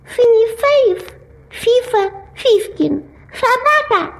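mushy lisp; fat-tongued slurring; swollen tongue. Acted. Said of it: "смог только опять сказать".

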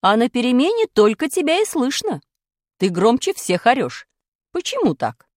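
stern teacher quizzing class; strict teacher. Acted. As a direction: demand to know who has talent.

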